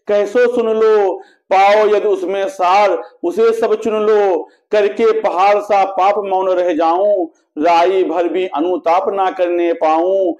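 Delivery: measured, metrical verse reading with sustained line endings; poetry recitation. A narrator's reading. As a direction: recite the couplets in a steady, declaimed rhythm. Recites the queen's lament in verse. (लयबद्ध काव्य-पाठ)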